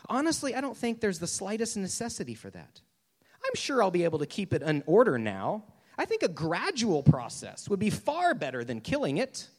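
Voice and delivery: mildly pleading storybook ghost; acted protest with lively swoops in pitch; excuse-making ghost. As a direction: reason nervously to stall for time.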